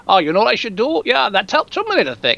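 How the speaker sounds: a lightly voiced, clumsy Austrian accent; mock Schwarzenegger, Austrian accent barely there; half-hearted Austrian accent impression of Schwarzenegger; bad Schwarzenegger accent. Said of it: "That's a horrible accent".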